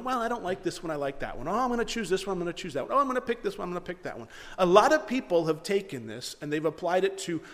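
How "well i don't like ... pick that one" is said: lightly hammed-up dithering between options; mock whimsical choosing. Preacher parodies God choosing at random, in mock whimsy.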